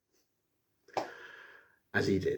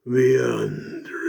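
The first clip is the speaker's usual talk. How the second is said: spooky whisper of the name; a dramatic whispered name; ominous whisper. Pretend. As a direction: hush it like a horror trailer.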